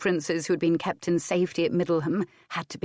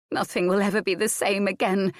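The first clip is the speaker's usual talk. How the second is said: despairing; 2 semitones higher than usual. Acted. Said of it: "Adair said".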